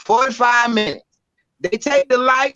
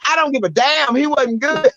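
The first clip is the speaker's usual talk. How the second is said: blunt fan; 5 semitones higher than usual. Retold or imitated. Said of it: "She was like".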